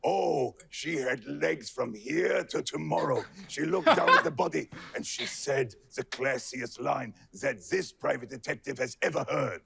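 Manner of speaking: lightly voiced hard-boiled narrator; a hint of a noir private eye; noir detective. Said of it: "nineteen twenties detective drama".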